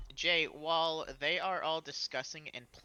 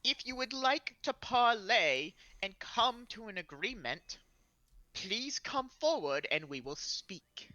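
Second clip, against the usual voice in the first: lightly raised formal proclamation; measured, slightly pitched-up character voice; commanding announcement; 4 semitones higher than usual. Acted. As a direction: offer terms like an envoy in command. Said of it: "announce in a commanding voice".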